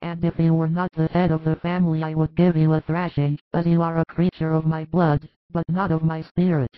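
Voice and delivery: shouting. A narrator's reading. Mary of Alphaeus scolding her son, indignant shout. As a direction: let her anger at the fool burst out. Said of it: "shouts Mary of Alphaeus".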